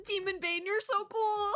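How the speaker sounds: high-pitched fanboy gushing; cheering him on. Acted. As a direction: gush like an adoring sidekick. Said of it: "They're still just cheering him on".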